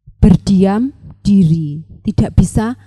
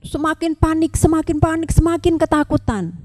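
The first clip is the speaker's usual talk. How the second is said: rising panic; 6 semitones higher than usual. A narrator's reading. Narrator rising with ant's panic.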